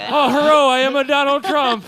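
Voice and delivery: put-on high, loud English accent; hammy posh English accent. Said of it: "your English accent is outstanding".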